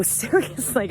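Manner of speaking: mildly incredulous, imitating listeners; sceptical question. Listeners hearing her pioneer story, sceptical question. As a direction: ask it softly, as if doubting. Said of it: "They go".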